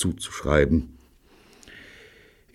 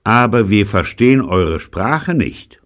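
loud, raised-pitch acted retort; defiant retort; 6 semitones higher, 10 dB louder than usual. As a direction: call it out defiantly to the enemy. Defiant parley shouted to enemies.

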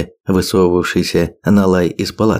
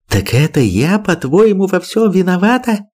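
hissed; 10 semitones higher than usual. A narrator's reading. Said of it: "прошипела".

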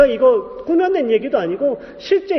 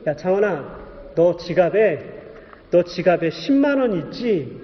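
God's voice; 5 semitones lower, 3 dB quieter, slower than usual. Retold or imitated. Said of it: "이러는 거예요".

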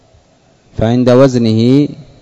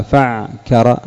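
slow wrong option; much slower than usual. Shown as a demonstration. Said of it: "فهل نقول فكر".

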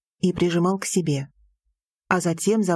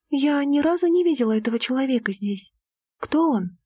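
put-on a young woman's voice, lightly higher; Lira's voice; 6 semitones higher than usual. A narrator's reading. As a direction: voice the heroine, a touch higher. Lira's voice in the story. (голос героини, чуть выше)

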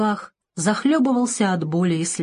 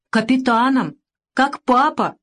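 put-on higher childish voice; little boy; 6 semitones higher, 4 dB louder, slower than usual. A narrator's reading. Boy says what he wants to be, childlike. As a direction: answer as a small tearful child.

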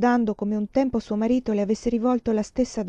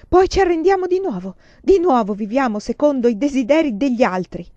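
louder impassioned tirade; passionate; 4 semitones higher, 6 dB louder than usual. Acted. Lover keeps raging at their fate, loud. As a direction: keep railing against surrender. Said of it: "gridò".

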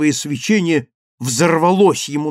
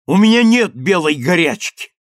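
angry retort; 4 semitones higher, 4 dB louder than usual. Acted. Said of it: "рявкнул я".

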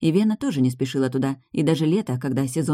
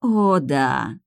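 breathy vintage purr. Acted. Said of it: "с придыханием проговорила Сабина".

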